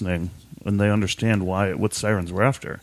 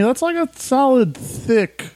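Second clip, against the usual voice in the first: high-pitched; 13 semitones higher, slower than usual. Acted. High far exclamation.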